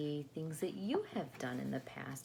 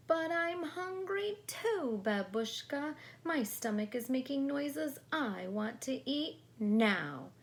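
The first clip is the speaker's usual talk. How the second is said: put-on whiny hungry child; 10 semitones higher, 5 dB louder than usual. Natasha whining hungry.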